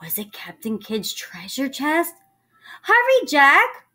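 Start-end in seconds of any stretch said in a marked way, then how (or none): 2.8-3.9 high, loud, drawn-out call; shouting from a distance, stretched out; urgent cry. A narrator's reading. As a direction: call someone to hurry. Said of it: "cried Annie".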